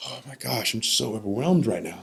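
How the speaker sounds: imitated, mildly overcome voice; retold overwhelm. Grandfather overwhelmed by grandson's call, retold emotion. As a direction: lift the pitch, a touch overcome. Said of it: "He's overwhelmed".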